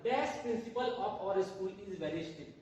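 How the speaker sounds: very slow, word by word, stress on Dash; teacher reads the last example aloud, very slowly; slow dictation. Shown as a demonstration. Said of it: "हमारा last example है".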